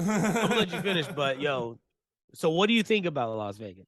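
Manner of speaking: laughing through a fast mock of the chatty guy; laughing mock quote. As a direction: giggle as you rattle it off.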